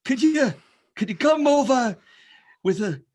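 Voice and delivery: put-on loud, high-pitched Jewish accent caricature. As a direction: call out politely in a hammed-up Jewish accent, drawn out. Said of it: "the Jewish accent's just fine".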